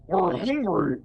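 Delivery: a hint of a deep monster; lightly voiced deep head. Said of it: "the deep voice says".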